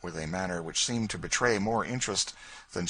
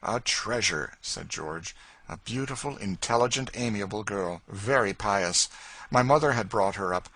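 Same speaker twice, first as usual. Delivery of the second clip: lightly voiced young gentleman; 3 semitones higher than usual. George praises Eliza.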